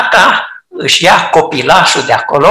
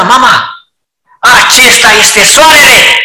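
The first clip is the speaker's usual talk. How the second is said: put-on the old way; 2 semitones higher, 4 dB louder than usual. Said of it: "de ce nu a procedat ca mai înainte".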